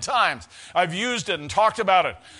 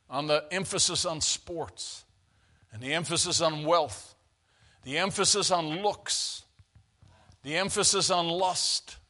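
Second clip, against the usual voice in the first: measured litany. Real, not acted. Preacher lists worldly pulls, measured litany.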